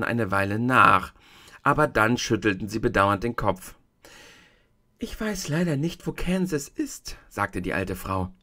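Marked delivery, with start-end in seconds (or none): 5.0-7.2 a hint of a kindly tiny old woman; old witch of the North. The tiny old woman shows Dorothy the feet, gently voiced.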